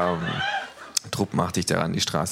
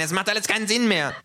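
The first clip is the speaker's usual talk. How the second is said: despairing yell. A narrator's reading. Little neo-Nazi despairs, mock yelled. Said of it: "schreit der Kleine".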